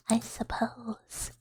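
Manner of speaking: breathy whisper of the words. Shown as a demonstration. ASMR streamer whispering a chat phrase. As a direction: whisper it close to the mic. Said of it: "renamed A S M R".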